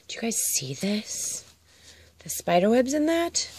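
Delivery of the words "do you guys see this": softer, slow, hushed whisper. Real, not acted. Vlogger shows viewers the spider web bag, whispering. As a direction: whisper it like a secret.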